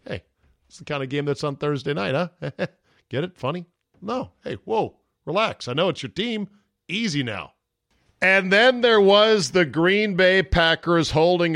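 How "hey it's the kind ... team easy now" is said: winky aside. Retold or imitated. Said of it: "a winky aside".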